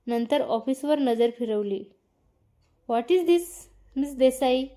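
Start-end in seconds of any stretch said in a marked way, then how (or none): 2.9-4.6 furious boss yelling; angry yell. Acted. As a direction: demand an answer from the clumsy employee. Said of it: "Aarav ओरडलाच".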